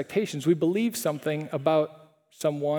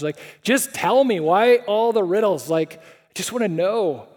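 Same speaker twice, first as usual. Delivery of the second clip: exasperated pleading; 4 dB louder than usual. Pretend. Students pleading with Jesus.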